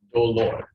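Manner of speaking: "Dolor" in two clear beats, do-lor; syllables sounded out. Shown as a demonstration. Teacher asking class to count, "Dolor" syllable by syllable. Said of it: "So how many syllables?".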